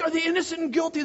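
high, quick crowd-working call; megaphone rabble-rouser. Retold or imitated. Leader on megaphone polls the crowd, high quick call. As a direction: toss the question high to a mob. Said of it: "I'm on the megaphone".

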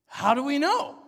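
retold alarmed surprise, loud and high; incredulous question. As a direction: push back in disbelief, voice jumping up. Pastor retells his doubtful reaction.

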